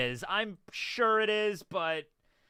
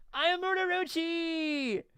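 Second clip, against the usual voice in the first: slow, high booming villain voice; booming demon lord; 11 semitones higher, slower than usual. Acted. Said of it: "my take of Orochi".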